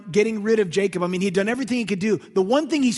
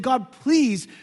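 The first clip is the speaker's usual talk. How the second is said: broken pleading; 3 semitones higher, 5 dB louder, much slower than usual. Retold or imitated. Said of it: "he's finally broken and saying".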